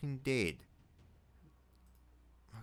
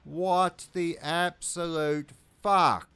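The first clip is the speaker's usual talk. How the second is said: higher and louder, raging at the screen; furious yelling; 8 semitones higher, 10 dB louder than usual. Real, not acted. Gamer furious at his own misclick, yelling at the screen. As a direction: swear it out in full disbelieving fury. Player raging at lost units.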